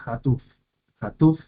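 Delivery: Hatuf with the stress on tuf; final-syllable stress. Shown as a demonstration. Teacher showing where Hatuf takes its accent, final stress. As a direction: lean on the last syllable, ha-TUF. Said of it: "en este caso es acentuada".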